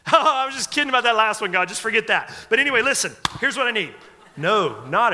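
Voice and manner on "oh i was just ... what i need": hammed-up casual prayer skipping past the failure; mock breezy prayer. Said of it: "You're not coming in bold".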